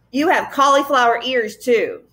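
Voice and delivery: a touch of jeering sing-song; mocking. Gaboon mocking Tom's looks, a mild jeer. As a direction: tease him with mild scorn. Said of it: "mocked the Gaboon".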